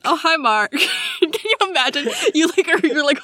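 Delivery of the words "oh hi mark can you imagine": lightly put-on comic impersonation; Tommy Wiseau. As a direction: echo the movie greeting in a silly voice. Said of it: "Tommy Wiseau heard that Santa".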